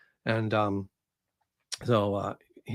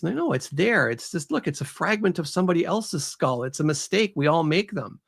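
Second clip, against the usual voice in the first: higher-pitched insistent protest; arguing; 6 semitones higher than usual. Acted. Woman to French doctor about the skull, arguing insistently. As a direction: insist against all objections, voice pitched up. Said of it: "she's arguing with the French doctor".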